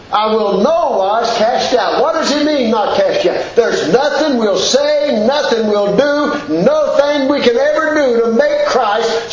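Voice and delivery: fervent preacher's scripture reading; preaching scripture. Acted. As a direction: proclaim the verses like a pulpit preacher.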